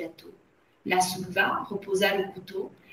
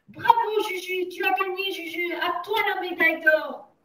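high, jubilant cheers; cheering; 9 semitones higher than usual. A narrator's reading. Enfants applauding Juju's victory, high cheering. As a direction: cheer like children hailing a winner. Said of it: "poussaient des cris".

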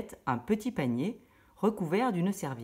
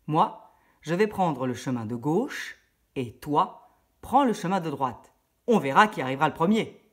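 cunning wolf; 5 dB louder than usual. Acted. Le loup propose une course.

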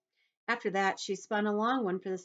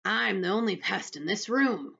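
lightly voiced boastful centipede, raised; crying out; 4 semitones higher, 6 dB louder than usual. A narrator's reading. Centipede boasting to the room, crying out. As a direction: call it out higher and louder. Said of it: "cried the centipede".

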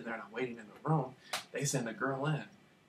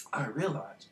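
hushed reveal; whispered; slower than usual. Real, not acted. Telling viewers what he realized, in a whisper. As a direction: drop to a whisper. Dramatic pause before realisation.

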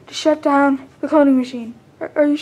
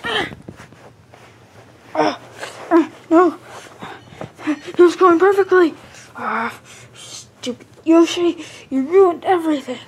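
frustrated outburst; 3 semitones higher than usual. Acted. Bowser yelling that Yoshi ruined his plan. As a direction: vent the rage at the ruined plan.

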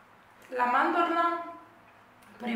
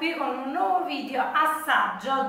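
upbeat vlog intro; 5 semitones higher, 7 dB louder than usual. Real, not acted.

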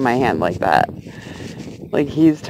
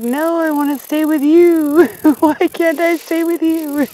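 voicing the grasshopper; 9 semitones higher than usual. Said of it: "He's like".

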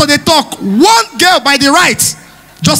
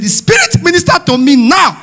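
mock pastor; 4 semitones higher than usual. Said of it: "He said".

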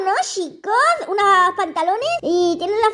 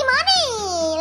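money echoed higher with a laugh; 5 semitones higher than usual. Shown as a demonstration. Gamer teasing the girl about the diamond, laughing. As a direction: repeat money laughing at the price. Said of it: "mucho money".

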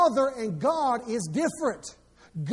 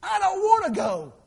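pleading with God; 3 semitones higher than usual. Retold or imitated. Pastor retelling begging God not to send him, pleading. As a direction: beg not to be sent. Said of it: "I said".

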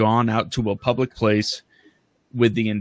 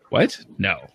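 disbelief; 5 semitones higher, 5 dB louder than usual. Retold or imitated. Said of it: "Can't believe it".

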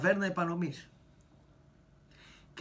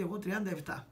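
ordinary talk, nothing marked

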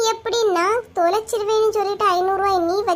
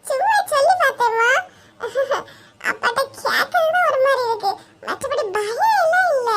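sheepish; 5 semitones higher than usual. Acted. Child denies being afraid of father.

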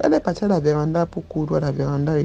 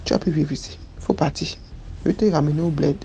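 nanny's threat. Retold or imitated. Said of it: "Elle me dit".

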